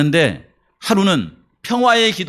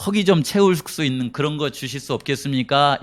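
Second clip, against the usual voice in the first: pleading for food; 5 semitones lower than usual. Retold or imitated. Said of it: "이렇게 말하는 거예요".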